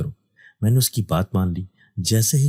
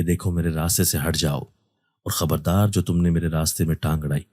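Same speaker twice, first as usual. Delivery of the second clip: a hint of a heavy possessed voice, lightly angry; lightly voiced jinn warning off the imam; 3 semitones lower than usual. Possessed girl warns the imam in a lightly heavy angry voice. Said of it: "کافی بھاری آواز میں غصے سے".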